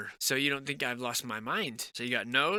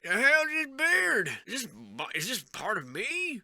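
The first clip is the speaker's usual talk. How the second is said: comic high-pitched confusion; just-woken sleeper; 9 semitones higher than usual. Acted. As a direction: wake from a century's sleep, baffled. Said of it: "woke up out of a hundred year sleep".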